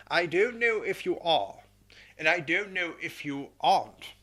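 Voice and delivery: lightly voiced pompous retort; mock-dignified comeback; quoted reply. Colonel quotes his own reply to the officer, lightly pompous. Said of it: "and I said".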